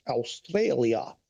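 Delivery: "Australia?" stretched out slowly in an unintended accent; accidental accent. Real, not acted. Streamer naming a past flight, "Australia?" drawled in an accidental accent. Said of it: "I was not trying to do an accent there".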